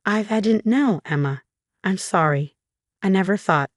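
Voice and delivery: halting start with a repeated I; a light nervous stammer. Acted. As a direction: stumble over the first words.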